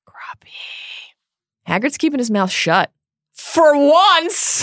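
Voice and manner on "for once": high sarcastic jab; mock him with a sharp quip. Real, not acted.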